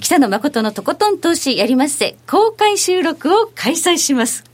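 slow, deliberate event announcement; announcing the public recording carefully to listeners, slow and deliberate. Real, not acted. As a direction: spell out each detail slowly so as not to stumble. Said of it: "噛まずに言えました".

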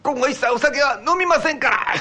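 a dutiful son eager to please; earnest son. Acted.

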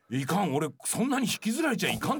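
mock-urgent self-warning, rising high; self-admonishing. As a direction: check yourself in comic alarm. 自分を戒める内心の再現. (慌てて自分を戒めるように、高い声で)

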